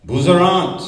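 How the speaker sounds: high-pitched cried-out insult; a hint of a shouting policeman; mock scream. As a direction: fling the slur like the shouting agent. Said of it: "screamed out".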